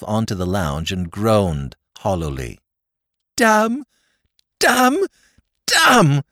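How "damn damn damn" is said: loud, high despairing damns; groaning curses. A narrator's reading. Drever groaning curses to Jimmy, loud and high. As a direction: curse in despair at being engaged. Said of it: "groaned his lordship".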